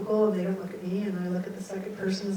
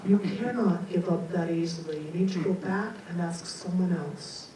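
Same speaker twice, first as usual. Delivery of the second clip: businesslike voice; 4 semitones lower than usual. Retold or imitated. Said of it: "the businesslike voice goes".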